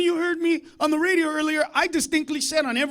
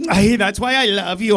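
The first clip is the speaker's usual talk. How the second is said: lower, lilting mock-loving mom; swooning mom; 5 semitones lower, 6 dB louder than usual. Mom answering dad's rant, mock swooning. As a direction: play her melting after the tirade. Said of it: "my mom goes".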